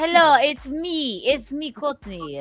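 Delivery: mock Swedish accent, drawn out at first; hello in a badly faked Swedish accent. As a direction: put on a clumsy Swedish accent. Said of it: "can't do a Swedish accent".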